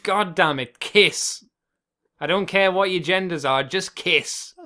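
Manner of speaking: mock-exasperated demand. Co-host demanding that the characters just kiss, mock exasperation. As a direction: plead crossly, landing hard on each kiss.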